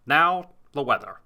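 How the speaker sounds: mock newsreader doing Sean Connery; Sean Connery newscaster. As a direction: read the headlines like a hammy Sean Connery. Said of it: "sounding more and more like Sean Connery".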